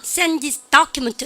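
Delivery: slow beats on "Send" and "document"; rhythmic stress. Shown as a demonstration. Teacher telling class to ride the rhythm, stressed "Send" and "document". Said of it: "리듬 타보세요".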